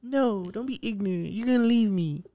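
put-on high girlfriend voice, pleading; a singer. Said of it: "a singer's voice would be like".

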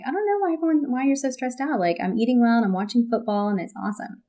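mock a carefree guy who doesn't get it; hammed-up clueless husband; oblivious men quote. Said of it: "men are often like".

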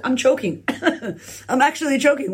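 giggling through the words; laughing. Pretend. Pretend first-time vlogger, laughing through it. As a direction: laugh as you fake choking.

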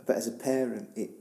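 halting, broken-off words after crying; faltering, tearful admiration; choked up. Real, not acted. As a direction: struggle to get each word out. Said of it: "I've been crying".

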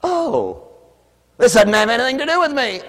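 mock whiny protest; whiny excuse. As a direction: play a churchgoer dodging the call. Voicing a reluctant churchgoer.

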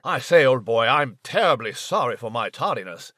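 lightly voiced stuffy British gentleman mouse; a hint of an old-fashioned English toff apologising; Nigel the posh mouse. Mouse apologises to the announcer for arriving late, a touch plummy. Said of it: "no problem, Nigel".

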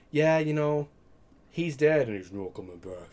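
demon voice. Retold or imitated. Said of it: "she's like".

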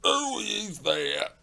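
high, slow gruff challenge; gruff cry. A narrator's reading. Porter challenging callers from within, gruff slow cry. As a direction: call out gruffly from behind a door. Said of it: "cried a gruff voice from within".

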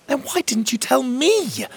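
high, loud, stress on me; fiery demand. Acted. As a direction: turn it back on him angrily. Emerald's hair looked extra fiery.

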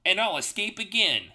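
high defiant shout. Acted. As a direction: yell it back boldly. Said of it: "shouts Sonic".

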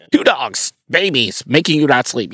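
mock blurting in short bursts; clumsy prophetic word. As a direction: imitate an untrained, blunt delivery. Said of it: "know how to deliver a word".

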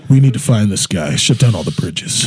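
slow, serious crime bulletin; mock news anchor announcing a suspect; news report voice. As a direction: read it like a police news alert. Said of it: "I hear".

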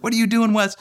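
high mimicking copy of dad; son copying. Son mimicking his dad, high and cheeky. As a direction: echo it back like a small child. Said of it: "he's like".

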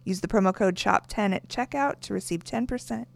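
sponsor read in long runs. Real, not acted. Co-host reading boutique sponsor copy to listeners, ad read.

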